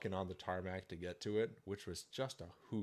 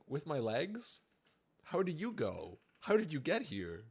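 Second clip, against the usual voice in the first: mock confused; 8 semitones higher, 4 dB louder than usual. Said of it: "It's like".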